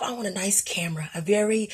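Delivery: hushed inner wish, breathy whisper; whispered thought. Retold or imitated. Vlogger recalls wishing for a camera, whispered. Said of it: "and I thought to myself".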